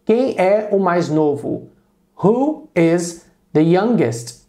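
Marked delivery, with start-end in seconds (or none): 2.2-4.5 slow, careful repeat of the question; slow model question. Shown as a demonstration. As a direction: repeat it slowly for the class. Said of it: "Tô perguntando". (pergunta modelo repetida devagar)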